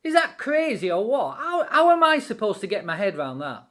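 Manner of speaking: disbelieving, pitch leaping on really; stunned doubting soldier; incredulous. Pretend. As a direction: ask it as if you can't believe your ears. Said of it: "you're gonna go like".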